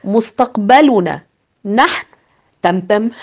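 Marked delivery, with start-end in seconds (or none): 0.0-2.1 incredulous. Acted. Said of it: "بلهجة أقرب إلى الاستنكار".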